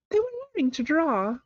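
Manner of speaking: drowsy, mid-yawn voice; sleepy yawning. A narrator's reading. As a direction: yawn through the words. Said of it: "yawning and rubbing its eyes".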